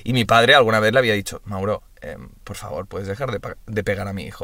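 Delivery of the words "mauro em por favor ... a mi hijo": father asking softly and politely, hushed; a soft, pleading request to stop; polite dad. Retold or imitated. Dad asks the cousin to stop, quietly and politely.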